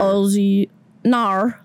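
tentative Aussie vowels; attempted Australian accent. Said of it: "like that?".

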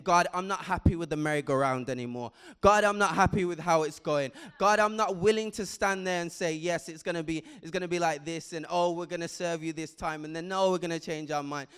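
loud, pleading complaint, fast at first; preacher voicing Hannah's loud lament; crying out to God. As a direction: voice Hannah crying out against the cycle. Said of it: "She was crying out and saying".

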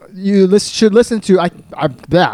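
talking with a numb mouth; words slurred by a numb mouth. Real, not acted. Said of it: "I can't talk".

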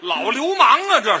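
loud, high-pitched cry of indignation; outraged outburst. Acted. Straight man exposes the old lecher, outraged outburst.

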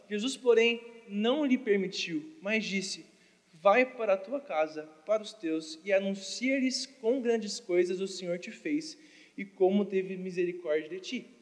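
low, measured Bible reading; scripture reading. Acted. Preacher reading Scripture to the congregation, measured and low.

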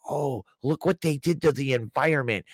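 mildly mocking liberal voice. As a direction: lightly parody a fretful liberal. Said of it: "oh, the liberals".

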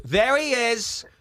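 high, drawn-out call on a falling tune; mock calling out. Woman comes up and points him out, mock calling out. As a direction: imitate someone spotting a culprit, high and stretched.

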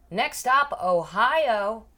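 high, loud cabin announcement; drunk flight attendant. Retold or imitated. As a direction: imitate a tipsy attendant on the intercom. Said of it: "the flight attendant is blackout drunk".

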